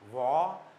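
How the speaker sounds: long "वा" with rounded lips. Shown as a demonstration. Teacher isolating the first syllable, "वा" with a rounded W. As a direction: round the mouth tightly for "वा". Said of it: "डब्ल्यू को गोल मुंह करेंगे".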